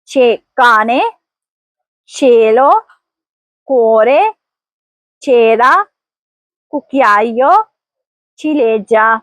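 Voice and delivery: teacher modelling Italian words for learners to repeat, one by one; model word reading. Shown as a demonstration. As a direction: read each word alone with a pause after it for repeating. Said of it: "آئیے ایک بار میرے ساتھ پڑھیے". (ہر لفظ الگ الگ، وقفے کے ساتھ پڑھ کر تلفظ سکھائیں)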